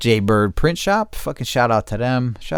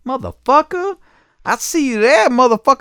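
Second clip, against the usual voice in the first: much higher, squeaky mock voice for the caller; mocking the angry caller; 5 dB louder than usual. Mocking the caller who yelled about his kids, squealing high. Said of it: "this crazy motherfucker that called me".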